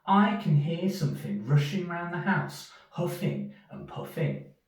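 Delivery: high, small worried mouse voice; a tiny scared mouse whispering his worry; Little Mouse. Acted. Little Mouse tells Big Mouse about the noise: high anxious voice.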